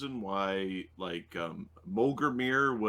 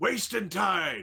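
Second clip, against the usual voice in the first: very high yelled, shouted voice; 10 semitones higher than usual. Voicing a captain getting the crew to raise anchor: yelling orders. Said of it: "he's yelling".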